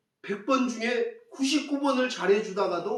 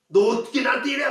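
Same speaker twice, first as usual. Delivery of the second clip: quick, acted angry protest; mock outrage; 3 semitones higher, 4 dB louder, faster than usual. Preacher acting someone who turns on an offender, mock outrage. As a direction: fire it off as a mild outburst. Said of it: "노발대발하고 분노하거나".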